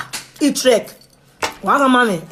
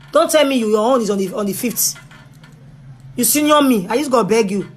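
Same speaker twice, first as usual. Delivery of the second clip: exasperated outburst; 2 semitones higher than usual. Real, not acted. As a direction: throw up your hands at him. Exasperated at big man.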